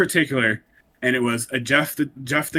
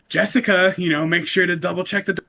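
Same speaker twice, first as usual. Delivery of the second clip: creepy stalker voice; 6 semitones higher than usual. Retold or imitated. Quoting creepy video voice.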